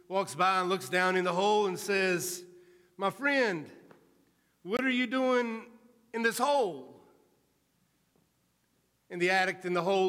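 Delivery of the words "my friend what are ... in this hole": concerned stranger calling down. Acted. Educated man calls into hole.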